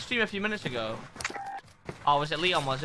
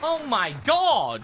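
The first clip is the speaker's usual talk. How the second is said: drawn-out, higher amazed cry; 5 semitones higher, 4 dB louder, much slower than usual. Real, not acted. Gamer watching a teammate's great play, drawn-out amazement. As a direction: stretch it out slowly in disbelief.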